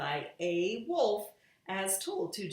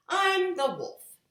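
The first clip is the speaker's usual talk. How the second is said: wolf voice; 12 semitones higher, 7 dB louder than usual. Acted. Wolf narrates.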